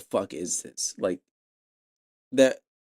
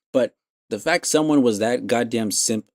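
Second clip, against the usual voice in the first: ordinary talk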